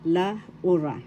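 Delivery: "La Ura" in two separate parts, U stressed; pronunciation demo. Shown as a demonstration. Teacher showing learners the name, U stressed in "La Ura". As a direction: split "La" from "Ura", leaning on U. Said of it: "That's how it is pronounced".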